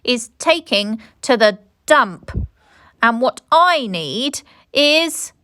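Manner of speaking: high, loud and delighted; gleeful. A narrator's reading. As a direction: cheer it out with glee. Gleeful ending line.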